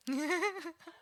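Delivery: high, soft giggle; light giggle. Real, not acted. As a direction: giggle lightly under your breath. Amused at the group's reaction.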